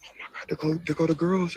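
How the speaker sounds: usual speaking voice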